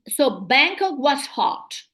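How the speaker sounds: slow "so Bangkok was hot" leaning on "Bangkok"; feeling-laden statement, slow, stress on "Bangkok"; exclamative tone. Shown as a demonstration. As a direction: say it slowly as an exclamation. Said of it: "Instead of saying how hot Bangkok was".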